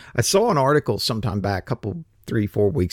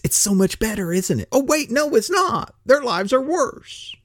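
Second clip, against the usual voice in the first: sarcastic; 10 semitones higher than usual. Acted. Sarcastic mock praise then reversal.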